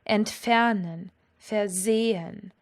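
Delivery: slow Entfernen, versehen, stressed ent-FER-nen, ver-SE-hen; stress on second syllable. Shown as a demonstration. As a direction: leave the prefixes of Entfernen and versehen unstressed. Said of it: "all work in the same way".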